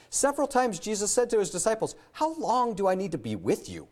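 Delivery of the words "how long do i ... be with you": mildly exasperated, higher-pitched question; raised pitch, exasperated but not shouting; frustrated. Retold or imitated. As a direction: quote it with a touch of frustration. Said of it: "Jesus got frustrated with them".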